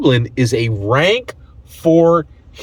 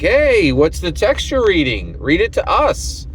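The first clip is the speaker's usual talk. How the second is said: menacing thugs; 8 semitones higher than usual. Retold or imitated. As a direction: tease her like a street thug. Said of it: "and are like".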